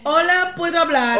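put-on high, loud Italian accent. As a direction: greet them like an Italian host. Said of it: "Con acento italiano".

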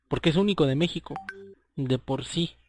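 hiccuping mid-sentence; with hiccups. Real, not acted. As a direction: talk through the hiccups. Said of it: "Ay, me dio hipo".

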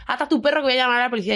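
fast, hurried threat; wife's demand. Retold or imitated. The wife threatening to call police, fast and curt. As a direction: rattle off the wife's demand quickly. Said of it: "me dice la mujer".

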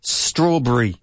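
STRAWBERRY as "STRAW-bree"; careful "strawb-ree" for learners; correct strawberry. Shown as a demonstration. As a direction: model strawberry with a clear b. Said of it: "It's strawberry".

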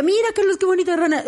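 high-pitched mock delight; delighted showing-off. Wife showing squeamish husband a frog, delighted. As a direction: coo it up high, imitating wonder.

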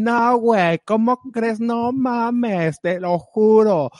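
high mock fresa chatter; mock fresa doctors; fresa ladies. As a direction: imitate posh ladies gossiping, pitched high. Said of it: "amigas mías, doctoras, que dicen".

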